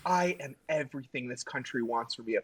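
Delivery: declaiming to camera in short statements; mock TV antihero. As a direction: announce each trait like a grand boast. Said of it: "he grabs the camera, and he's like".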